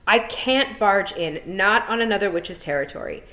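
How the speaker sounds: a hint of a brisk, worried witch, rising loud at the end; teacher lightly voicing a fretful witch; lightly voiced old witch. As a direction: voice the witch muttering over her omen. Miss Tick speaks in story.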